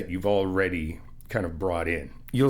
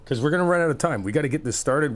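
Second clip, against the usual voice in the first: hurried urgency; 5 semitones higher, faster than usual. Real, not acted. Hurrying partner to get paint mixed.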